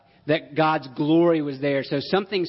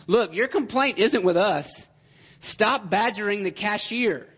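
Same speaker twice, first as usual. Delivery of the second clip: exasperated, higher-pitched telling-off; fed-up Moses; 4 semitones higher than usual. Acted. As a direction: act out a mildly fed-up leader scolding grumblers. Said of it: "That's how fed up he is".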